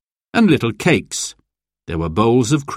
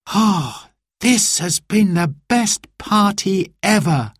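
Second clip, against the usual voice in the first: contented sigh; 9 semitones higher than usual. A narrator's reading. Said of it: "sighed Simon".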